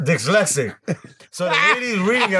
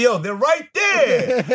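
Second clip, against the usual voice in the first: impatient shout; 7 semitones higher, much slower than usual. Retold or imitated. Foreman on ladder impatient.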